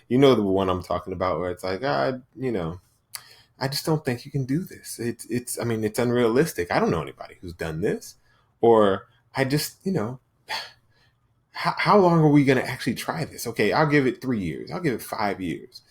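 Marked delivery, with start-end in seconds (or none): 1.8-8.1 soft, whining self-doubt voice; whiny inner voice. Retold or imitated. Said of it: "the little whiny voice". 9.4-15.8 sighing, whining doubt; whiny inner voice. Retold or imitated. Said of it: "the little whiny voice".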